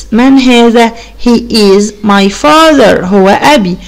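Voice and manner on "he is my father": slow and drawn out; slow model reading. Shown as a demonstration. Teacher modelling the answer slowly for children. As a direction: read it slowly so they can repeat. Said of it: "يبقى".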